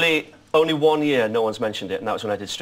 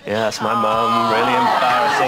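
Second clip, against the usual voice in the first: embarrassed laugh; 3 semitones lower, 4 dB louder, slower than usual. Retold or imitated. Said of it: "I'd be like".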